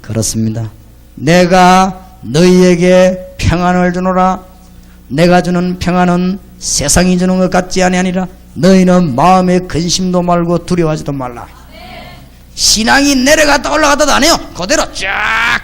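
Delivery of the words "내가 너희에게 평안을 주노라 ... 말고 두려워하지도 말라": slow, solemn reading of the verse; solemn Bible quote from the pulpit; scripture recitation. Acted. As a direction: intone the words of Jesus slowly.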